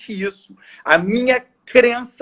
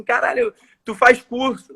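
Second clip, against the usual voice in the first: higher-pitched amazed question, acted out; impressed disbelief; 5 semitones higher than usual. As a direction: imitate someone marvelling at natural talent. Admirado com talento de vendedor. (pergunta admirada, em tom mais agudo)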